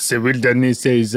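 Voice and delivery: put-on echoing a British accent on "wilderness"; slipping into imitation British; copied British accent. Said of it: "I just heard your accent, and I wanna".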